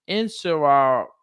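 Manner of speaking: "answer our" drawn out as one unit; slow linked drill. Shown as a demonstration. Teacher showing the student the linking, slow drill. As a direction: link "answer our" slowly and clearly.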